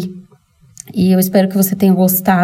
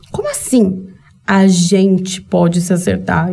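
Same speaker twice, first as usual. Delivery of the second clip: incredulous repeat. Retold or imitated. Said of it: "ele olhou com uma cara assustada".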